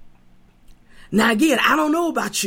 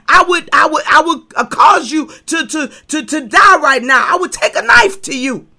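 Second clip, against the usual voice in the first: louder furious Balaam shouting threats at the donkey; angry retort; 5 semitones higher, 5 dB louder than usual. Acted. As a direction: bark it back like a man out of his mind with anger. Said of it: "Balaam shot right back and said".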